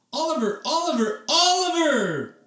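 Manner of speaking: family shouting up the stairs. A narrator's reading. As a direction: call his name, building up. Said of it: "shouted Mom, Dad, and Emily".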